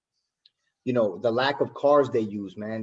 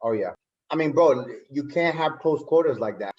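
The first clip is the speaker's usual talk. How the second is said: chewing while talking. Real, not acted. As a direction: mouth full of food. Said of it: "I'm chewing right now".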